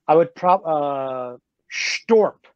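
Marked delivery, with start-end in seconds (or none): 1.7-2.4 higher sound effect with a falling end; comic impact sound. Shown as a demonstration. Cartoonist sounding out a gelatinous monster being impaled, comic impact sound. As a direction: voice it like a comic-book impact, pitched up. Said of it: "you tell me what sound you hear".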